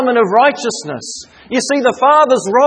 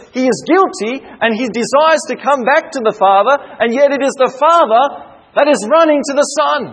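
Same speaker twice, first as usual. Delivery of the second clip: rising, impassioned sermon delivery with emphatic repeats; fervent preaching. Acted. Preacher to congregation about the father's love, fervent preaching. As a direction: preach it with mounting conviction.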